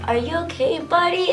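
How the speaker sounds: imitating Terry's baby talk. Retelling Terry's line again.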